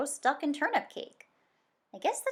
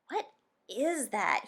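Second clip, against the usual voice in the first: stuffed-up voice; slower than usual. Acted. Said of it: "voice sounded all stuffed up".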